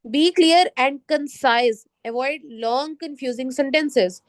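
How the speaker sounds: slow, measured reading of slide text; unhurried classroom read-aloud. Acted. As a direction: read each prompt deliberately to the class. Reads slide tip slowly.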